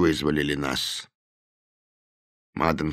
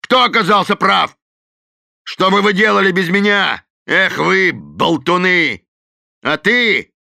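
loud, high scolding; Delaney scolds his gang; scornful berating; 12 semitones higher, 7 dB louder than usual. A narrator's reading. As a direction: tear into them.

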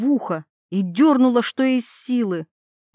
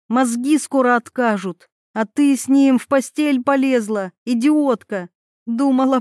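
gloating insults; 3 semitones higher than usual. Acted. Gloating insults over Mila.

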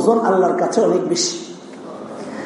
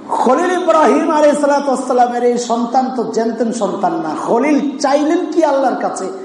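ordinary delivery

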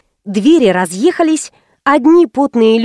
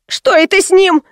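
higher alarmed shriek; shrieking woman; 8 semitones higher than usual. Acted. Onlooker shrieks at fallen man, alarmed. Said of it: "взвизгнула какая-то баба".

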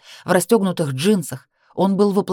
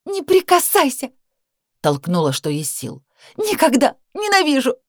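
high screaming refusal; 8 semitones higher than usual. Acted. Pushes him away screaming.

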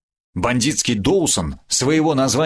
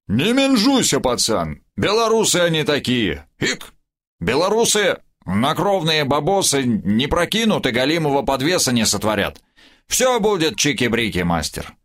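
put-on drunk rambling toast; 4 semitones higher than usual. Drunk stalker reassuring Irishman.

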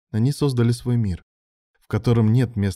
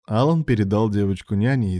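ordinary delivery

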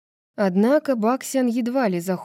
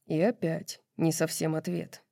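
soft whispered aside; 2 semitones lower, 6 dB quieter than usual. A narrator's reading. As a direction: whisper it under your breath. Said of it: "шёпотом заметил Баксиану Хант".

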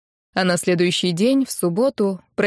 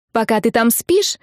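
выше и громче, взахлёб; крикни, задрав голос вверх; кричит; 4 semitones higher, 3 dB louder than usual. Acted. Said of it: "ещё громче крикнула". (подруга кричит новость в трубку, высоко и громко)

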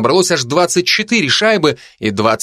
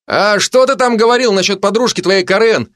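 lightly called out in a higher pitch; mild called shout; 7 semitones higher than usual. A narrator's reading. Narrator calls to Madan's back about Karen's girlfriend, mild mock shout. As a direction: call it after someone, without real volume. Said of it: "крикнул я в спину Мадана".

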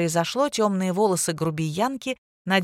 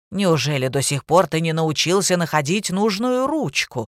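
straining shout; 4 dB louder than usual. Acted. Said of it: "надрывалась Варвара Михайловна".

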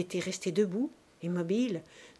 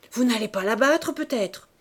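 loud challenge; 4 semitones higher, 8 dB louder than usual. A narrator's reading. Saccard jumps between them.

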